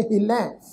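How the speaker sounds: ਹਿਲੈ with a nasalised final vowel; ਹਿਲੈ ending nasal; nasal pronunciation. Shown as a demonstration. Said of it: "ਹਿਲੈ ਸ਼ਬਦ ਦਾ ਪਾਠ ਵੀ ਨਾਸਕੀ tone ਵਿੱਚ".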